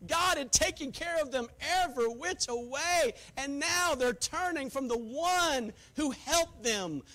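slow, drawn-out sermon cadence; building pulpit lament; impassioned preaching. Real, not acted. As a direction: preach it forcefully, stretching the key words.

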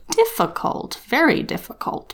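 high, hushed musing hat; a high, hushed Sorting Hat weighing things up; small hat voice. A narrator's reading. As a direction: murmur it like a thoughtful old hat. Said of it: "said a small voice in his ear".

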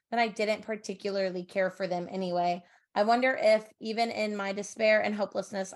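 even, understated storytelling voice; story narration. A narrator's reading. Reads a passage aloud.

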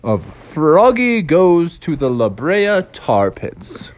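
measured storybook intro voice; storybook narrator. Acted. Opens a read-along storybook.

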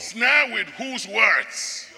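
slow, drawn-out quiz to the crowd; probing question. Shown as a demonstration. Preacher quizzing congregation, slow and drawn-out. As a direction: stretch it out, testing them. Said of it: "preacher quizzing congregation slowly".

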